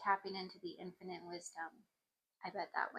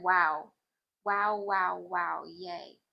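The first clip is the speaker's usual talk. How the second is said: loud, delighted burst of wows; excited wows; 9 dB louder, much slower than usual. Real, not acted. Reading a hopeful answer, she cheers out loud. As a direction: cheer it out like good news just arrived.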